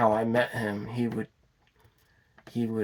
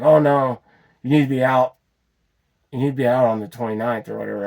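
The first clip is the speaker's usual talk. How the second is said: pushy interrupting landlord; 5 dB louder, faster than usual. Retold or imitated. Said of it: "he wouldn't even let me finish talking".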